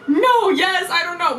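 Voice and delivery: giggly confused reply; flustered. Retold or imitated. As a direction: tumble out a flustered laugh. Flustered laughing answer.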